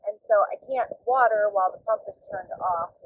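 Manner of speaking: talking over tractor noise; loud engine in background; tractor rumbling behind. Real, not acted. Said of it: "I'm sorry for the tractor noise in the background".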